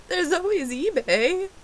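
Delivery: high, loud hammed-up suggestion; hopeful plea. Own pleading reply acted out.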